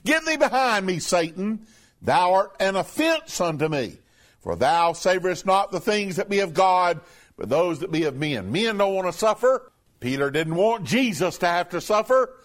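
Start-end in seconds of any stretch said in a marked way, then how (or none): 0.0-8.5 emphatic rebuke. Retold or imitated. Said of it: "an emphatic statement to Peter".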